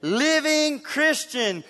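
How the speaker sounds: slow, lightly mock spy introduction; Bond-style self intro. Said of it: "look in the mirror and say".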